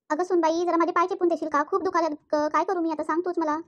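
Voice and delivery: put-on old mother-in-law calls out to her daughter-in-law. Mother-in-law begs for a leg massage.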